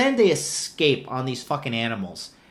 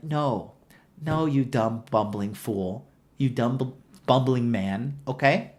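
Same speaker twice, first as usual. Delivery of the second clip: mock scolding Rose; 5 dB quieter than usual. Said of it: "Chubby Asian has to one-up him".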